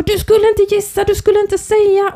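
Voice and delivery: put-on high, whiny child protest; upset child. Son protesting that she should not guess, high and upset. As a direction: complain like a boy who feels cheated. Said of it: "han bara".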